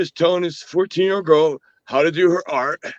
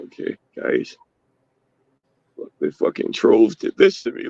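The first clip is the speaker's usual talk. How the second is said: mock despair; 7 semitones lower than usual. Mocking streamer's defeated video.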